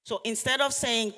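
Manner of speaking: ordinary talk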